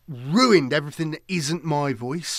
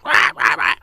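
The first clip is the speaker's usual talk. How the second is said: bird voice; 10 dB louder than usual. Retold or imitated. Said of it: "The bird voice, it goes from".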